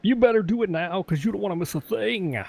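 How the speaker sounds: booming stage introduction; big hyped announcer, high and punchy; crazy announcer voice. Shown as a demonstration. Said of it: "That's my crazy announcer voice".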